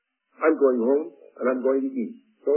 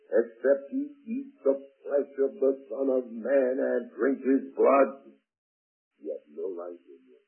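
scripture reading. A narrator's reading. Preacher reads a warning of Jesus to the congregation, solemn. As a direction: dwell on the key words of each verse.

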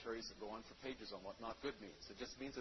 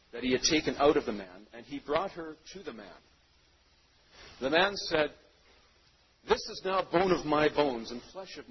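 scripture reading; 14 dB louder than usual. Acted. Reads scripture aloud to congregation.

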